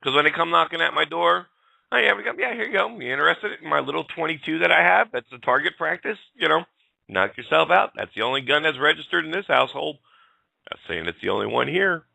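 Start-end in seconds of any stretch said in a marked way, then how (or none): 1.9-12.1 high, sugary, overly helpful voice; mock sweet compliance. Gun owner mocking police at her door, high sugary voice. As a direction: act sickly helpful while hiding the truth.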